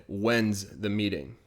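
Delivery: slow When's the meeting, When's said as one blended word; blended contraction. Shown as a demonstration. Teacher showing When's the meeting slowly. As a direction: slowly run when and is together into When's. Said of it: "I'm just kinda blending them into one word".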